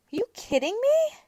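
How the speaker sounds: high, squeaky mock disbelief; high indignant squeal; shrill disbelief. Disbelief at parking fee.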